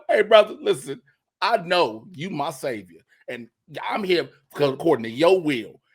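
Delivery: hammed-up bargaining with the Lord; mock prayer to the Lord. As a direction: call up to the Lord like a buddy. Acted prayer talking to the Lord.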